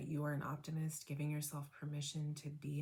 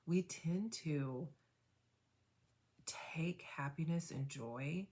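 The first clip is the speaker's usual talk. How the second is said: guided meditation. Acted. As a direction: guide them gently into noticing. Guided reflection after tapping.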